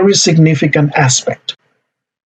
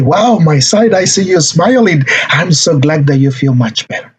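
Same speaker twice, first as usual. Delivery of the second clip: pleasantly surprised, pitch lifted at first; glad parent. Shown as a demonstration. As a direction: share the child's relief. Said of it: "And then you say".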